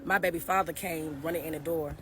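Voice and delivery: trembling while telling it; shaky voice. Real, not acted. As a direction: voice shaking a little. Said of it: "I was shaking a little bit".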